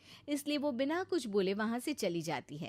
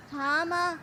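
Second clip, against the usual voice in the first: higher, louder whiny daughter voice; daughter complaining; 3 semitones higher, 5 dB louder than usual. Acted. Daughter whining to her mother about the coming bride. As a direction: sulk to mum that you'll be ignored.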